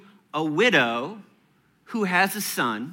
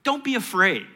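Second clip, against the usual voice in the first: Elijah reassuring the widow; 4 semitones higher than usual. Retold or imitated. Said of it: "He says".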